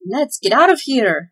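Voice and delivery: scared elf wanting to bolt; stuttered in fear. Acted. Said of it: "stuttered Tweedlenees".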